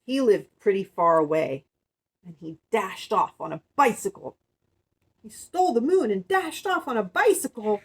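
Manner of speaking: lively, emphatic read-aloud; storybook reading. Acted. Woman reading of the miser's getaway, emphatic storybook narration. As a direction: punch the key words for young listeners.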